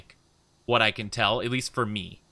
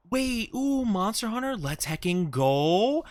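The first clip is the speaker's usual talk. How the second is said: high, drawn-out hype; thrilled fan cheer; excited; 8 semitones higher, slower than usual. Real, not acted. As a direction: squeal with delight, stretching the last word. Thrilled by game named in chat.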